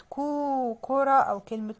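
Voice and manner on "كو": long, held كو with rounded lips; rounded damma sound. Shown as a demonstration. Teacher explaining rounded lips, drawn-out damma on كو. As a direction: draw out كو before the whole word. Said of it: "لما نضم بقنا".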